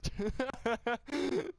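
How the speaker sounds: long high-pitched laughing fit. Real, not acted. Reader cracking up over tacos, high laughter.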